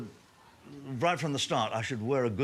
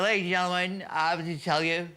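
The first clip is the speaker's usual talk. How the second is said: tearful club secretary; 7 semitones higher than usual. Retold or imitated. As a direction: announce the chairman's death like a grieving club secretary, hammed up. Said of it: "He said".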